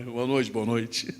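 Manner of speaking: put-on low, slow old lady greeting the TV. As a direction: mimic an old woman saying good night. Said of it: "aquelas idosas que davam boa noite pro Cid Moreira".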